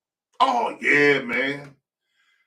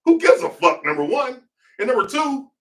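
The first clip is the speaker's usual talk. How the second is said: exasperated outburst; 10 semitones higher, 5 dB louder than usual. Real, not acted. Outburst over celebrity gossip.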